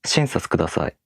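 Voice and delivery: wrongly accent the Shin of Shinsatsu kudasai; SHIN-satsu kudasai, pitch dropping after Shin; accent on first syllable. Shown as a demonstration. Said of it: "accent on the first syllable".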